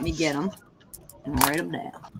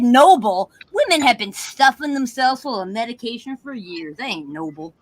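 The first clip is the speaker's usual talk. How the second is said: sassy retort; 5 semitones higher than usual. Retold or imitated. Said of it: "I said".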